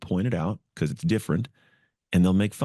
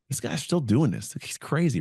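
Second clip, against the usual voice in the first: much higher, incredulous jeer; mocking teammate; 8 semitones higher than usual. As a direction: marvel at the crazy guy mockingly. Teammates talking about him in fourth month.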